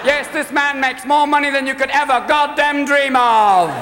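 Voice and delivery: loud Robin Leach. Retold or imitated. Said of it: "I'm Robin Leach with a voice so loud".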